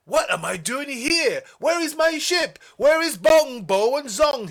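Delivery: high, loud distressed calls; anxious high shouting; crying out. Acted. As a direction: cry out for lost friends. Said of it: "he cried".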